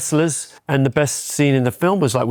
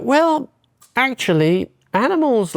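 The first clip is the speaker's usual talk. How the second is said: excited idea; 12 semitones higher, slower than usual. Retold or imitated.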